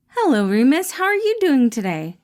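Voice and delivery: bright caring boss checking in; Patton voiced. Boss greets his employee Remus, cheerful caring voice.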